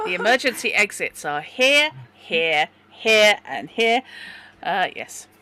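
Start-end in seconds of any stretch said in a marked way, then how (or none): 0.1-4.0 cheery cabin crew safety briefing; flight attendant. Acted. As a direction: point out the exits like cabin crew. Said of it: "You sounded exactly like a flight attendant".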